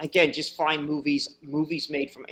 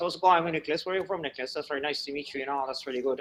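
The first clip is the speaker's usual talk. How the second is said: very fast, rapid-fire, run-together, rattled-off talk. Showing how people from Cork talk when greeting: very fast speech. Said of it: "we're very fast. It'd be like this".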